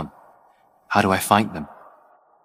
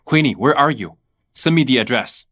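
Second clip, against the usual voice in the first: loud, higher urgent question; worried urgent calling; 4 semitones higher, 4 dB louder than usual. Acted. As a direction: demand her location in a hurry. Frantic phone call about mother.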